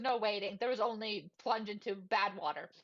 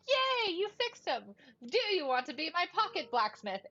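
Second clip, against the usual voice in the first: excited cheer; 4 semitones higher than usual. Retold or imitated. Excited character praising the repaired Atlas.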